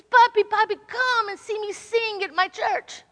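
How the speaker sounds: lightly voiced little girl asking; sweet granddaughter. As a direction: invite grandpa to hear her sing. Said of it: "she says".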